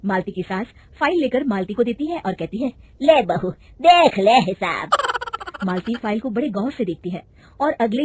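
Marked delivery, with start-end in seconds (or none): 3.0-4.9 louder, slow firm order; the mother-in-law telling her daughter-in-law to check the accounts; firm command. Acted. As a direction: hand it over with authority. Mother-in-law hands over file.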